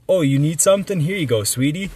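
imitated sweet offer. Homeless woman offering help to a stranger, imitated sweetly.

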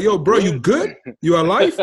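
mock worried. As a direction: play up checking he is alive. Worried message to friend.

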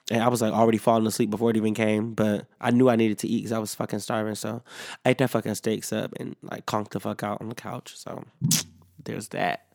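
normal talking voice

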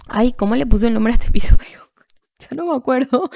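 whispering to herself, trying to remember; breathy forgetful whisper; whispered aside. Real, not acted. Forgot episode title, aside.

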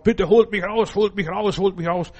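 a desperate call that sinks into repeats; pleading cry. Acted. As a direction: beg to be pulled out of the pit. Man waking up in plague pit.

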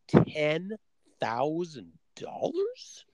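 slow, breathless whisper of disbelief; stunned disbelief. Retold or imitated. Told the course costs ten grand, he whispers back stunned. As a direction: gasp the price back at her as if it can't be real.

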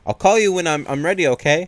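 high, loud imitation of a woman calling; mock high-pitched call from upstairs; calling out sweetly. Karen calls to Pete while going upstairs, high mock call-out.

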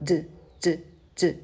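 hard English d with tongue tip up; crisp English d, not Spanish; English-style d. Shown as a demonstration. Teacher showing the wrong English d. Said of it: "if I try to pronounce it in English".

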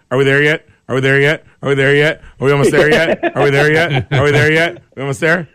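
lightly voiced nagging kid; pestering child. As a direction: whine it over and over like a bored kid in the back seat. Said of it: "the rover had to listen to".

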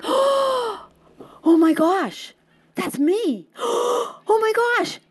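high, gasping, near-tearful disbelief; overwhelmed excitement. Retold or imitated. Runner hearing her name over the loudspeakers, overcome with excitement. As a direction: relive the moment your name is called, choked up and thrilled. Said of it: "so excited".

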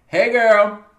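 high, loud squealed greeting; excited hey girl. Pretend. Greeting her adopted big sister, high excited squeal. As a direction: squeal it like spotting your bestie.

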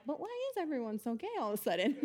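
quick, eager echo of the question; curious crowd echo. Retold or imitated. The rest of the room repeats the grandma's question, quick and eager. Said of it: "And then everyone else was like".

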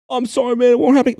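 high-pitched imitation of a coworker begging the boss; mock begging. Coworker begging the manager for his job, mock pleading. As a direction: plead like a scared employee, half-mocking. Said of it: "begging and crying".

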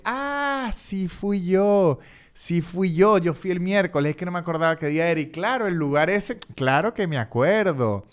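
imitando al tipo con voz más aguda y melosa de repente; voz cambiada. Retold or imitated. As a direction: como ladrón que de pronto se hace el amable. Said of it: "él cambia la voz". (el estafador interesado en la plata cambia la voz, ahora agudo y complaciente)

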